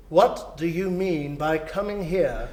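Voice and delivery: slow, mock stern growl; mock gruff. Scrooge pretending to scold Bob Cratchit, slow and mock stern. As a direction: put on his old harshness.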